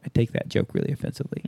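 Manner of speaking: fast, soft deadpan; mock offended. Teasing the host about his joke, fast soft mock offense. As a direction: fake offense quietly.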